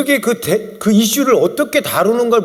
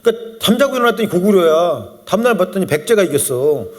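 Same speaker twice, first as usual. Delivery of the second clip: usual speaking voice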